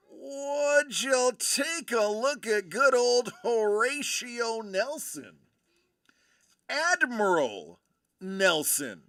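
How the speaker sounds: corny punchline setup; deadpan pun delivery; telling a dad joke. Acted. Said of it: "Thanks, folks. I'll be here all week".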